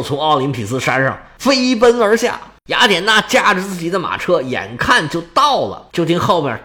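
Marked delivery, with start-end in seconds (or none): none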